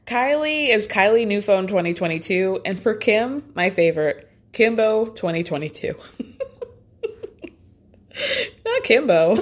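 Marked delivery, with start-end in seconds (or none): 5.9-9.4 high squeal through laughter; laughing disbelief. Real, not acted. Reading the daughters' phone names, she squeals laughing. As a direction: crack up at the nickname, squealing high.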